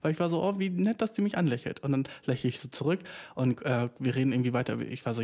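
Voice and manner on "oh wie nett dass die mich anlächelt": higher, touched little thought; ein bisschen berührt. Retold or imitated. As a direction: coo it, mildly moved. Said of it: "So ein bisschen berührt". (leicht gerührt, höher, nachgespielt)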